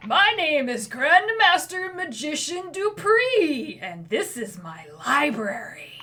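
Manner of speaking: put-on boy wizard. Little dwarven boy introduces himself to adventurers. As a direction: puff up like a kid playing Grandmaster.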